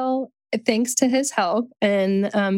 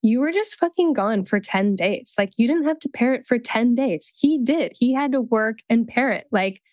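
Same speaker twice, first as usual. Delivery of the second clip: heated self-talk; 2 semitones higher than usual. Retold or imitated. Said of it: "I went into conversations about it going like".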